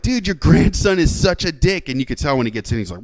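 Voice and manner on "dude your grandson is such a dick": higher, slow, emphatic disbelief; retold appeal in astonishment; incredulous complaint. Telling the grandfather about his grandson, incredulous.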